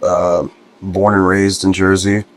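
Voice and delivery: tired, rough hungover voice. Real, not acted. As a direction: talk like you're nursing a hangover. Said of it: "I'm a little hungover today".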